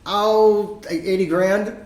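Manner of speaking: high, loud mock reply; nephew answering. Nephew casually naming tuition, high mock voice. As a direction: toss off the huge number like nothing. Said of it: "I'm like".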